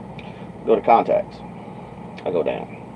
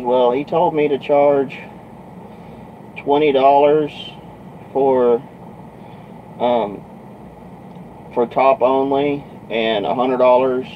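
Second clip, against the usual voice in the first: higher, slow and halting; lightly voiced girl; 4 semitones higher, slower than usual. Girl telling trucker what to charge, lightly imitated hesitance. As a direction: lightly mimic a girl reciting what she was told. Girl quoting prices, retold.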